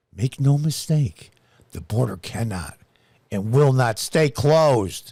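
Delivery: deep, put-on public-television announcer and newscaster voice. Quoting a public figure's statement, the speaker reads it in a deep PBS voice. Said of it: "I got to get a deep P B S voice for this".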